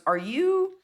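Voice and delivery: hesitant, puzzled query with rising pitch; questioning producer. Acted. Producer asks if she's South African or Australian, questioning. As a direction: start high, then slow into the options. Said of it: "the producer goes".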